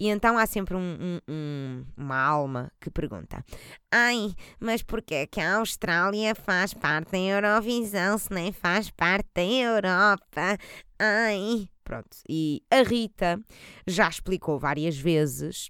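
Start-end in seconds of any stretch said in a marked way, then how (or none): 3.9-11.7 nerdy character voice. Mimicking someone who always asks the same question, in a nerdy glasses-pushing voice. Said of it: "vou fazer a voz e vocês têm que imaginar o meu dedinho indicador a pôr os óculos".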